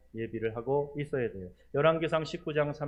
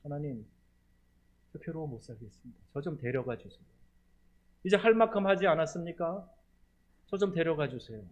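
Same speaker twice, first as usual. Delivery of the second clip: lamenting prayer; 3 semitones higher than usual. Retold or imitated. Preacher imitating a weary believer's lament, sighing. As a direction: groan it out like a lament to God. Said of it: "이런 탄식 같은 기도".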